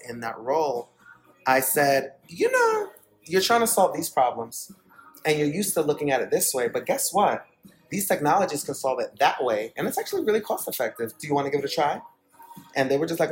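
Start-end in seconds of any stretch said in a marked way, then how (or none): 2.3-12.0 eager pitch. Retold or imitated. Broker pitching new technologies to the client, eager and persuasive. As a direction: pitch the idea with swooping, persuasive emphasis.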